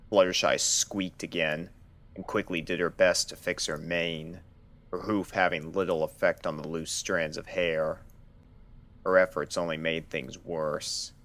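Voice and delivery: ordinary delivery, nothing marked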